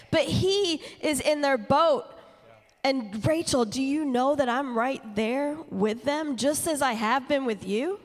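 passionate preaching. Acted. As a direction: preach it with rising conviction.

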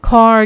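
"car" said the native English way, long rounded vowel; English-accented "car", not the Thai "คา"; native English pronunciation. Shown as a demonstration. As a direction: say "car" like a native speaker, with an r-coloured ending. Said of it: "คือเป็นรูปแบบของเจ้าของภาษา".

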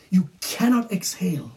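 whispered emphasis; hushed key phrase. Real, not acted. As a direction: lean in and whisper it.

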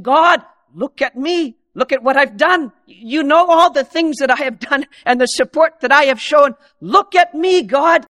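lightly voiced proud Pharisee calling for notice; boastful Pharisee. Pharisee praying to God, mildly boastful. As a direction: show off to God, pleased with yourself. Pharisee demanding God's attention.

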